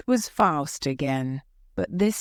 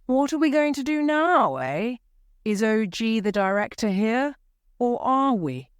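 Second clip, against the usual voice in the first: exasperated director, higher pitched throughout; indignant, pitched up and pushing; angry outburst; 7 semitones higher than usual. Acted. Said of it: "Monsieur Armand shouted".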